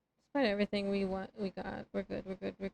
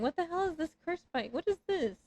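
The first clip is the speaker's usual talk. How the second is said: baffled; 8 semitones higher than usual. Real, not acted. Baffled by item.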